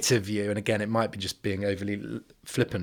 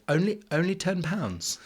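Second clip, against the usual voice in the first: horrified Queen; 8 semitones higher than usual. Retold or imitated. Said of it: "I will not do the impression".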